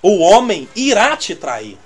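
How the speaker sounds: slow, solemn mock prophecy; quoting a bold prophecy. Preacher retelling a careless prophecy, slow and solemn. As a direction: deliver it slowly like a solemn warning. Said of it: "alguém falou assim".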